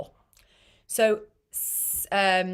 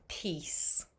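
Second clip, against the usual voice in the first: whispered; 3 semitones lower, 11 dB quieter than usual. Real, not acted. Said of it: "whispered gloss".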